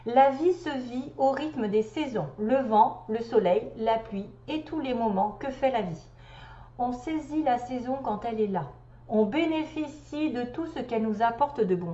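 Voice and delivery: measured, lilting recital; deliberate read-aloud cadence; reading a message aloud. Acted. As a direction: read it like a spiritual text, phrase by phrase. Reads out the message.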